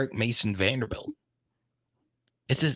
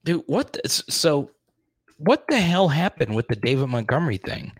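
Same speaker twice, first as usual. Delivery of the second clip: real agitated venting; on tilt; 4 semitones higher, 3 dB louder than usual. Real, not acted. Fantasy player venting about the David Montgomery thing, agitated. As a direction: burst out in exasperated disbelief. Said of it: "I'm so on tilt about this".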